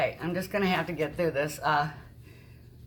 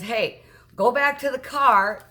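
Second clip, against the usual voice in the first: raised, drawn-out calling order; retold yell; 4 semitones higher, 5 dB louder, slower than usual. Man yelling back at his wife, retold with a mild yell. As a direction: imitate a man yelling back, moderately louder. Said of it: "he yells back at her".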